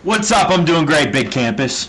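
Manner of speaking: distant echoey mic; sounding like in a gymnasium; far away. Real, not acted. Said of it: "you sound like you're nice and far away".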